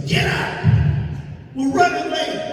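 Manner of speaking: imitating his mother. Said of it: "my mother was like this".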